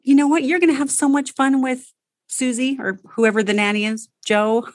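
put-on upbeat mother reassuring her toddler; cheerful goodbye. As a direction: sell the fun to the kid. Coach acts cheerful goodbye to child.

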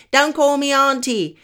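loud, high-pitched protest; indignant objection. Acted. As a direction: scold someone for the name they used. Acts out older women objecting.

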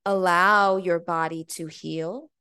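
slow, calm, distant voice from above; voice of God. Retold or imitated. The divine voice tells her to let her body heal, slow and calm. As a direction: let each word land slowly, like a divine command. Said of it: "it sounded like the voice of God".

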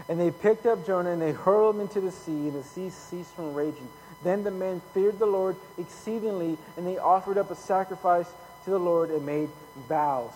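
emphatic pulpit reading; scripture reading. Acted. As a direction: read the story out with preacher's emphasis. Reads scripture aloud to congregation.

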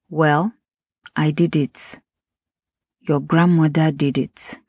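lightly voiced Nigerian mum, Nigerian accent; mimicking a Nigerian mother's retort with a Nigerian accent. Host imitating mum defending old habits, light Nigerian accent. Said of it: "I had to say that in my Nigerian accent for emphasis".

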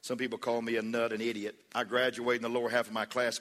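low, quiet, downcast self-put-down; negative self-talk. Acted. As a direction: voice someone running themselves down, low and subdued. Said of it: "you can have a positive attitude".

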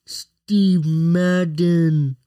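put-on very slow, stretched-out British accent; hammed-up British impression, slow; mock British accent. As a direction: drag out the name like a posh Brit. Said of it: "that's how y'all British people sound like".

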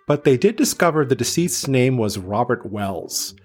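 measured true-crime read with melodic phrasing; scripted story narration. A narrator's reading. Podcaster reads the case to listeners, scripted narration. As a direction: read it out as a prepared report.

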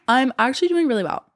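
fast, breathless talking; short of breath from strep throat. Real, not acted. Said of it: "I'm out of breath though".

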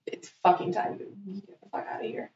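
hushed, whispered retort; retold mad dismissal. Woman retelling how she told her date to leave, mad whisper. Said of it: "I was so mad at him".

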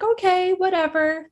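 high-pitched dog voice; dog's reluctant reply. Retold or imitated. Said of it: "But she's like".

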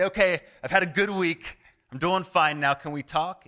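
mock breezy prayer.

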